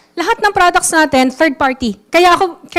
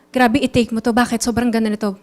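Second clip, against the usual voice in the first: mock weak sales pitch; 4 semitones lower, 6 dB quieter, faster than usual. Shown as a demonstration. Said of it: "Hindi ka ganun magsalita".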